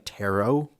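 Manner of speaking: "tarot" said as TAIR-oh; silent T. Shown as a demonstration. Host showing how some people say it, "tarot" as TAIR-oh. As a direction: say "tarot" with no final T, ending in OH. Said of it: "say it with a silent T".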